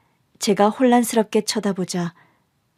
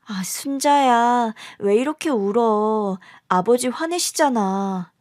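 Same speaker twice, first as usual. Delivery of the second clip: put-on pleading young sister; 3 semitones higher, slower than usual. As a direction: coax a crying baby to hush. Young sister soothes crying baby. (우는 동생을 달래는 어린 언니 목소리)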